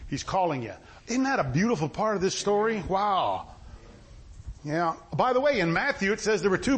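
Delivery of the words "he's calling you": low, reassuring murmur to calm someone; mild, low-pitched soothing; comforting. Acted. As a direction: gently talk someone down. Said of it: "calm him down and comfort him".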